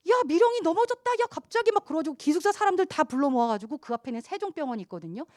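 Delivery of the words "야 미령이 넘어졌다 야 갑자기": much higher alarmed cry; startled alarm. Retold or imitated. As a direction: call out in shock that she fell. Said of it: "놀래가지고". (놀라서 외치는 친구 흉내)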